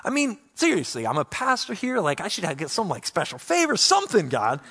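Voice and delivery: a pastor whining for special favor; whining at God. Retold or imitated. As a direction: demand answers from God, mock whiny. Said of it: "And we're like".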